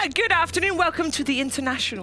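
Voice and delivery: a posh host opens the main stage; posh British accent. Pretend. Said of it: "that sounds very posh".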